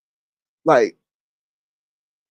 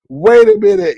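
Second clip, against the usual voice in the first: incredulous wait; 6 dB louder than usual. Retold or imitated. Retelling her reaction.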